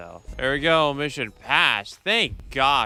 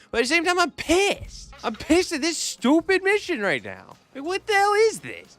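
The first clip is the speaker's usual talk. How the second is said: high-pitched irritated complaint; frustrated rant; 14 semitones higher than usual. Real, not acted. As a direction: vent about the stupid mission. Angry at the mission.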